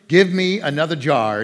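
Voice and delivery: she's catching on, so ask with gusto; eager demand. Retold or imitated. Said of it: "she's catching on here".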